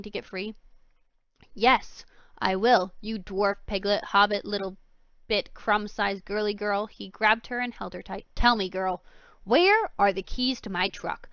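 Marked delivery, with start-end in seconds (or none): 1.5-6.9 mocking insults. Villain insults girl. 8.3-11.3 demanding. Acted. Villain demands keys.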